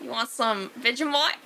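put-on joking Australian accent; mock Australian accent. Teasing co-host about the Australian slip, mock Australian. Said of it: "Fucking Australian".

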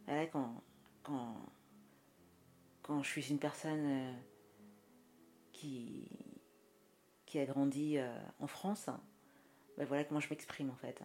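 put-on standard French accent; lightly affected French accent; French accent demo. Shown as a demonstration. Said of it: "je te fais l'accent français".

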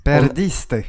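co-host repeats the correction; correct title. Shown as a demonstration. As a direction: insist on Perdiste. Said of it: "je fais pas l'effort de l'accent".

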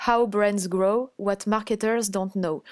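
put-on slow, careful English accent on the book title; best English accent. Guest naming her favourite book to the host, in a slow English accent. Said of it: "je sors mon plus bel accent anglais".

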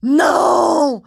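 high, loud yell of refusal. Retold or imitated. Notary yells at the surprise inspector, loud high shout. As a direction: scream it at the intruder. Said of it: "J'ai hurlé vraiment".

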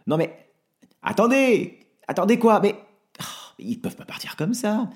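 frantic calling out; desperate shout. Acted. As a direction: yell after the van pulling away. Franck shouts after leaving van.

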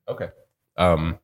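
talking through a little cough; throat catching between coughs. Real, not acted. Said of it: "sorry, I'm having a little coughing".

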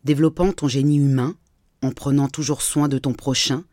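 measured poetic reading with pauses between verses; poem recital. Acted. Podcast host recites her text on humanity's history, poem recital. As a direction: recite each phrase as its own line of verse.

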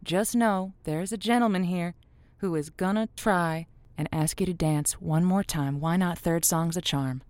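smooth on-air host wrapping up the night; radio host. Acted. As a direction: close the show sweetly for the listeners. Host wraps up show on air.

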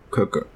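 Que que with a dry k, no puff; unaspirated K. Shown as a demonstration. Teacher repeats the Chinese sound, Que que without aspiration. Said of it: "Mais faut pas expirer".

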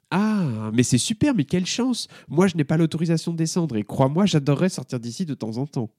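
voix de jeune fille plus aiguë, ravie et rapide; Emma enthousiaste. Acted. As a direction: une collégienne qui s'emballe. Emma s'enthousiasme. (voix d'adolescente, aiguë et emballée)

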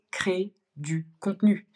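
"créez du contenu" said slowly, word by word; emphatic advice. Real, not acted. Key advice delivered to beginners. (« créez du contenu » martelé lentement)

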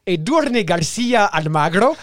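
put-on slow, rolled Spanish accent on the name. Presenting the singer's full name, in a mock Spanish accent. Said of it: "mon accent espagnol".

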